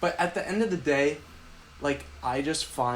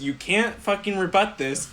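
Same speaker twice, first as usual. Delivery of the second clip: slow, higher-pitched mock challenge; mock emphatic dare, pitched up; mimicked challenge; 5 semitones higher than usual. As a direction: imitate a cocky debater laying it down. Mimics co-host's debating challenge.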